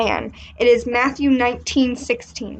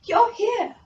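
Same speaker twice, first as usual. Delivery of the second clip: higher, grandiose haughty voice; pompous rich man; 5 semitones higher than usual. Acted. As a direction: play a self-important rich man.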